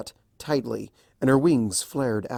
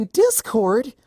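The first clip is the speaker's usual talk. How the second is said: sharp, much higher, louder cry; startled; 12 semitones higher, 7 dB louder than usual. A narrator's reading. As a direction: jolt upright in surprise. Startled cry of his name.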